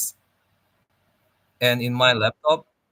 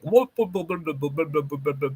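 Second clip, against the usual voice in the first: mock the accent with a quick string of blahs; Asian American accent; 3 semitones higher than usual. Streamer imitating how Asian Americans talk, mild mock accent. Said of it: "when Asian American talk like".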